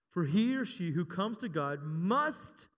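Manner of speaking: slow, drawn out, waiting for the crowd; slow call for a response; slow prompting read. Shown as a demonstration. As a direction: stretch it out so they fill the word in. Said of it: "what's that word?".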